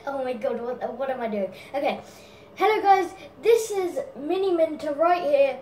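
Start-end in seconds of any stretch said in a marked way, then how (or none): 2.6-5.6 a lightly raised, louder YouTuber intro; Mini Minter impression. Doing a YouTuber's intro for a dare, lightly voiced. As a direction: greet the viewers like an excited YouTuber. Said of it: "I'm gonna do, um, Mini Minter first".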